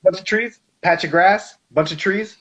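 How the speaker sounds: sing-song mockery of a tiny border; high, loud, playful listing of trees and grass; amused emphasis. Real, not acted. Mocking how easy the border is.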